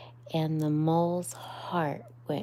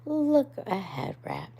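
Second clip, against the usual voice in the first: higher, louder warning call; sudden cry; 10 semitones higher, 5 dB louder than usual. Acted. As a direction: shout the warning. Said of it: "cried Mole suddenly".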